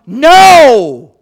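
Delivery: emphatic shouted no, drawn out; thundering, absolute refusal from the pulpit; full yell. Real, not acted. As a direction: bellow it as loud as you can. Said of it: "I couldn't yell louder".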